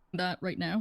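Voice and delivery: words broken by a cough; cough over word. Real, not acted. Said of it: "coughing over here".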